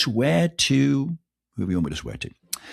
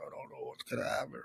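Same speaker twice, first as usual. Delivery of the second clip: retold panicked whisper; 18 dB quieter than usual. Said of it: "I was like".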